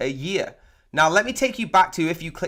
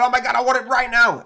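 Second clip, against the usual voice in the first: higher, louder gush of a buyer who can't wait; mock eager buyer; 6 semitones higher, 4 dB louder than usual. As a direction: gasp it like an impulsive shopper grabbing a deal.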